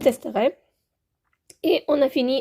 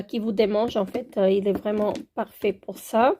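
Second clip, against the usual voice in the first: ordinary talk, nothing marked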